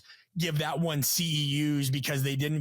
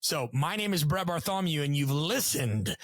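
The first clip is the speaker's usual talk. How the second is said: announcer sign-off. Pretend. Signs off like an old announcer.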